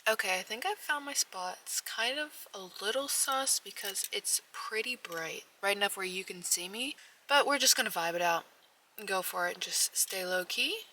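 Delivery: hushed whisper in the car. Real, not acted. Hiding in parked car at night.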